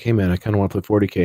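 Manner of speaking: low-key, hurried sheepish ask. Retold or imitated. Teen asking an older friend to play, sheepish. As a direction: rush it out sheepishly, as if a little embarrassed. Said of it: "older friend who I sheepishly".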